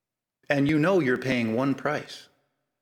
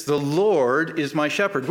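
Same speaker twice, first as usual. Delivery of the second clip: slow, weighty reading of the verse; solemn quotation. Shown as a demonstration. Preacher announcing the first line to the congregation, slow and weighty. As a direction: lay the verse down slowly and deliberately. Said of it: "The first is this".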